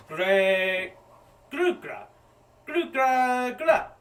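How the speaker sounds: high, loud stammering grunts; creature gibberish. Acted. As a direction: sputter out guttural creature words. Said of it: "and she goes".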